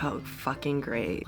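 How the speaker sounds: soft, slow dry sarcasm; deadpan the complaint; fed-up reaction to the doctor; sarcastic. Retold or imitated.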